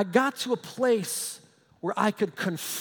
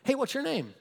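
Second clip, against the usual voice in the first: higher, offhand, unbothered query; casual question; 5 semitones higher than usual. Acted. Jesus comes up on the demons, casual unbothered question. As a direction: ask it breezily, not impressed. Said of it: "Jesus comes up on him".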